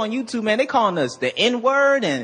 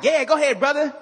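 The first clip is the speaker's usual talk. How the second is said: mock cheering fan; 4 semitones higher than usual. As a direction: egg the blogger on like a fanboy. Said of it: "people watching it like".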